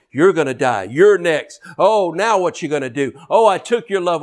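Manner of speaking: mocking demons hissing threats; taunting enemy voices. Preacher voicing enemies to the church, sneering. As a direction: sneer like the enemy in your ear.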